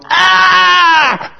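high, loud indignant outburst; mocking the Sadducees with a loud, high, outraged cry. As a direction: scoff and shout them down in disbelief. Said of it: "the Sadducees are going".

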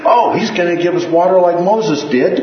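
high, loud imitation of people jumping to conclusions; mock crowd realization. Preacher voicing listeners recalling Moses' water, mock excited realization. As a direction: play the crowd suddenly working it out, pitched well up.

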